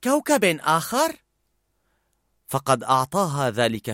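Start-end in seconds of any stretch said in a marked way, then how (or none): 0.0-1.2 a musing question, rising on كوكب; thoughtful. A narrator's reading. Joy repeats Bing Bong's words, thinking it through. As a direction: turn the words over as an idea dawns. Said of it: "قالت فرح بتمعن".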